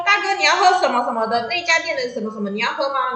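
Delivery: shouting his name. Retold or imitated. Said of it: "我冲出去喊他的名字".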